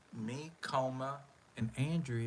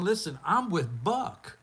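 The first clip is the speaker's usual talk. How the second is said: worried; 6 semitones higher, 6 dB louder than usual. Retold or imitated. Fearing for own safety.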